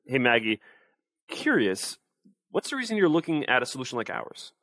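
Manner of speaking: rising, lively curious pitch. Shown as a demonstration. Sales coach showing the curious version of the question, lively curious. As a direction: let the pitch lift with interest. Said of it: "I sound more curious".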